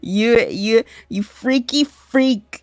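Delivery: half-laughing mock insult at chat; laughing disgust. Real, not acted. Streamer to a gross chatter, laughing insult. Chat asks to bid for snot.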